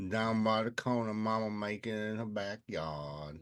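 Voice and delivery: lightly played Mississippi country accent; mock southern accent. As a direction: play a southern basket maker, country accent. Plays Leroy, southern basket maker.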